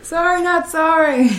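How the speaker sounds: high sassy sing-song. Acted. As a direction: toss it off playfully. Repeats catchphrase higher.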